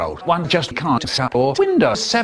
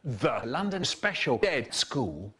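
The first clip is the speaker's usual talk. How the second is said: quiet; 9 dB quieter than usual. Acted. Sudden quiet dark turn.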